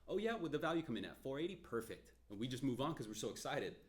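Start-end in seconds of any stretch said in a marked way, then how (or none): 0.1-2.1 mock eager. Mocking overeager loan officer.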